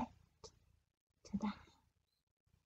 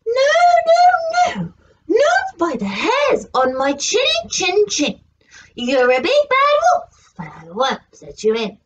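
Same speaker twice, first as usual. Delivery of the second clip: little pig voice. Acted. Pig answers the wolf.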